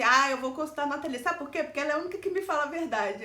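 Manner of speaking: a hint of the grateful boss; lightly voiced boss. Boss praising Nathalie in a light imitation. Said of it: "Ele falava assim".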